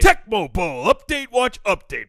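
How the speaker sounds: loud jingle shout; excited jingle. Pretend. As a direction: belt the segment name like a bumper. Echoing the jingle.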